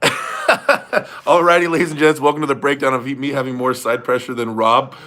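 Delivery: mock video intro breaking out of laughter; hammed-up YouTuber breakdown intro; Ryan Bowen. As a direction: launch a stretched-out opener, then settle into presenting. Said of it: "what does he open up all videos saying".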